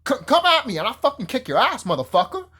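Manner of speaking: hammed-up dare to a brawl; mock challenge. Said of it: "And I'm like".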